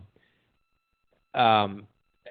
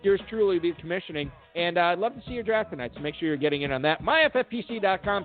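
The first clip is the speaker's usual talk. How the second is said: show host sign-off; 2 semitones higher than usual. Acted. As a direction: plug the events and send listeners off.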